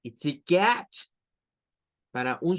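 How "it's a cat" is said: "cat" with the English ae, gliding from a toward e; "it's a cat" in an English voice; "cat" as in English, open ae then a crisp t. Shown as a demonstration. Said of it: "en el inglés se escucha cat".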